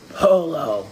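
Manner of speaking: mock demon call, lightly put on; a hint of a creepy demon. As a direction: answer like a lightly voiced pool demon. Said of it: "in a demon voice".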